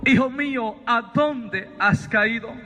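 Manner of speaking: slow, drawn-out fatherly call; voice from the light. Retold or imitated. Voice from the light calls Sabino by name, slow and solemn. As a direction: stretch out the question solemnly. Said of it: "vuelve a salir aquella voz".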